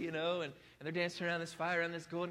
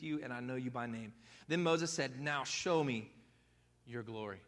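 steady, measured Bible reading; scripture reading. Acted. Pastor reading Exodus to the congregation, measured. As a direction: read the word to the congregation.

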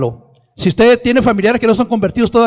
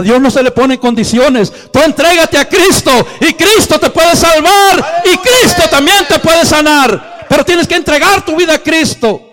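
earnest plea; 7 semitones higher, 4 dB louder than usual. Retold or imitated. Son pleading with sick mother.

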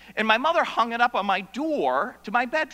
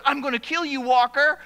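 a lightly voiced, louder retold threat; bully's threat; 4 semitones higher, 4 dB louder than usual. Bully lands in front of Walker, mildly raised threat. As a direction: throw the threat at him, a little louder. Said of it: "He goes".

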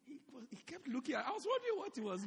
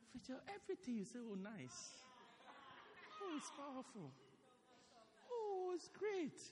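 fawning congregation; 2 semitones higher, 9 dB quieter than usual. Retold or imitated. Congregation flattering new pastor.

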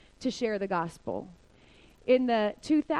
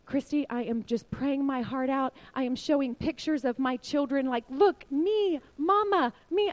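lightly voiced pleading wife, pitched up on the gestures; 2 semitones higher than usual. Wife showing captors pictures of her children, pleading. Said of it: "is telling me".

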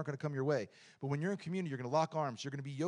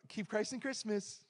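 slow, higher-pitched mock reverence; mock profound; 4 semitones higher, 5 dB quieter than usual. Preacher mimics people saying the holiday slogan, mock profound. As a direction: imitate a slogan said softly as if profound. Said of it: "why are you saying it like that".

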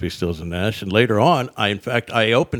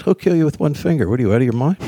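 higher-pitched, incredulous mock warning; retold warning; 5 semitones higher, 3 dB louder, faster than usual. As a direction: imitate a friend talking sense into him. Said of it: "He goes".

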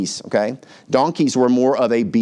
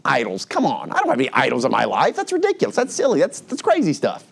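scoffing denial. Retold or imitated. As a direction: brush it off as absurd, mocking. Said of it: "You'd be like".

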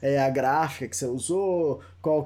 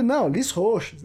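Lis Roches said higher and slower, re-intoned; retry Lis Roches slowly with a new lilt; changed intonation; 6 semitones higher, slower than usual. Retold or imitated. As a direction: Lis Roches drawn out, pitched up for the listener. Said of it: "Aí você começa a mudar as entonações".

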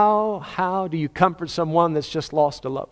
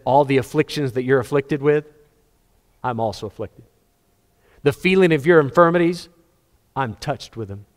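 gentle God voice. Acted. God speaking gently to sufferer.

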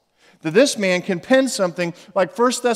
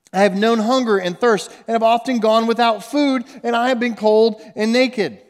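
raised, louder preaching declamation; forceful scripture reading; 5 semitones higher, 5 dB louder than usual. Acted. Preacher reading out Paul's hardships to the congregation, forceful declamation. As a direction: drive each item home like a mounting list.

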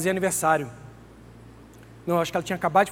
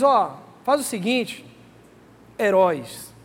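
sarcastic Jesus; 4 dB louder, slower than usual. Acted. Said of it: "Ele não falou assim não".

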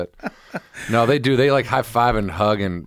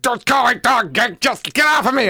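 mock whiny protest, pitched much higher; whiny friend protest; 12 semitones higher than usual. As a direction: imitate the pinned-down friend, whining high.

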